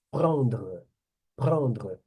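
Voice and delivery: "Prendre" with nasal vowel, French r; French pronunciation demo. Shown as a demonstration. Teacher showing students the key verb, careful French demo. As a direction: model "Prendre" as a careful standalone word. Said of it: "Vocês vão me ver muito nos vídeos fazendo assim".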